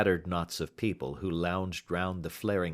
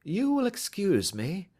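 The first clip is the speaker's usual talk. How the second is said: bland; 11 semitones higher than usual. Acted. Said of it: "said Holmes blandly".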